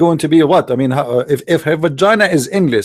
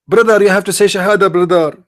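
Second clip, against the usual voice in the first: higher pleading preacher voice, a touch put on; mock Muslim brother; 4 semitones higher than usual. Imitating a Muslim urging a convert, a mock earnest plea. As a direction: mimic an earnest brother insisting.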